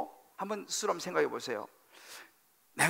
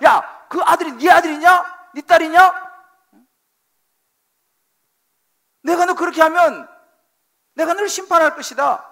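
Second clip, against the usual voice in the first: God rebuking angrily; 7 semitones higher, 10 dB louder than usual. Retold or imitated. God scolding a parent who insults his child, shouting. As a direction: roar it like an offended father defending his child. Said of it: "라고 주님께서 말씀하고 있다는 사실을".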